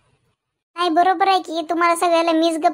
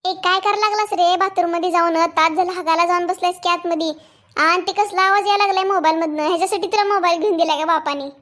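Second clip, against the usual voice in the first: angry scolding. Acted. Mother scolds son in bathroom.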